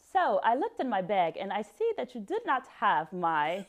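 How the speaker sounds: badly faked British accent; careful, tentative attempt at London British. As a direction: have a go at British, about to crack up. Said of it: "your response in a London British accent".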